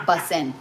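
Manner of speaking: "bussin'" ending in n, no g; slangy bussin'. Shown as a demonstration. Repeating the corrected slang for viewers, "bussin'" ending in -in. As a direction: say "bussin'" with the g dropped. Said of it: "Not bussin', bussin'".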